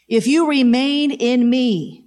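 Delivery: slow, solemn reading of Jesus' words; lightly voiced Jesus, slow and deliberate; voicing Jesus. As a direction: give each word weight, like scripture spoken aloud. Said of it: "this is Jesus".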